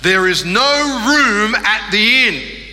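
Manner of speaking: slow, deliberate schoolboy line; lightly voiced kid rehearsing; rehearsed kid line. Boy practising his one line, slow and careful. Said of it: "his one line was".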